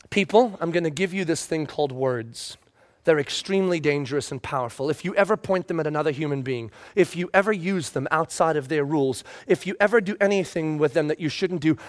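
deep solemn divine voice; God warning people about words. Retold or imitated. Voicing God speaking.

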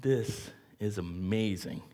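slow, hushed amazement; awestruck, taking his time; awed wonder. Retold or imitated. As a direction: drink in the view slowly, in wonder. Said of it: "he's just sitting there going".

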